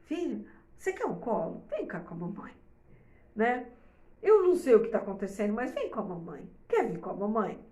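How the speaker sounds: suave e mais baixo, acolhendo a criança; tom de colo. Shown as a demonstration. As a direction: chame o filho pro colo com carinho. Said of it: "chega e fala assim". (mãe acolhe o filho que chora, com voz suave e baixa)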